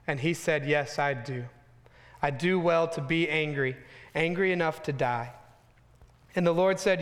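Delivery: measured, steady Bible reading voice; scripture reading. Acted. Preacher reads scripture to his church, measured and steady. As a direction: read the passage to the congregation.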